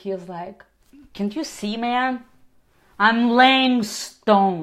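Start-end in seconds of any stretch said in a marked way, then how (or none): 1.1-4.6 loud, slow, scornful, angry and disdainful. Voicing an angry worker answering a traveler's question: disdainful angry reply. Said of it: "looks at him in disdain".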